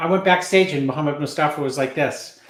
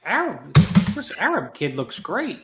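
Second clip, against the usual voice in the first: pen in teeth. Retold or imitated. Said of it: "I had the pen in my mouth imitating Bob".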